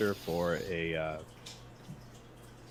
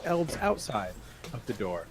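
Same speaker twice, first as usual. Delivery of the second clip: high put-on character voice; chirpy high-pitched adventurer; 8 semitones higher, 7 dB louder, faster than usual. Put-on voice asking about elves.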